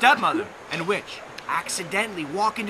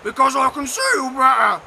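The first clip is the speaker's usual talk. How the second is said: louder put-on wolf voice; 6 semitones higher, 8 dB louder than usual. A narrator's reading. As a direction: answer as the sly wolf. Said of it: "the wolf said".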